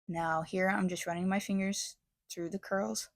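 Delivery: stuffy from allergies, sniffling. Real, not acted. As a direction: talk while sniffling with a stuffy nose. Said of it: "Excuse my sniffling".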